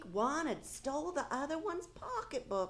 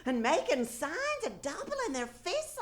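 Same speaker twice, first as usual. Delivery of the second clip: laughing while telling; 4 semitones higher, 3 dB louder than usual. Acted. Amused watching men argue.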